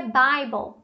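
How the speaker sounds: "Bible" said BAI-bol; correct AI vowel. Shown as a demonstration. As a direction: say "Bible" with AI after the B. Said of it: "tem um A I ali depois do B". ("Bible" pronunciado BÁI-bol)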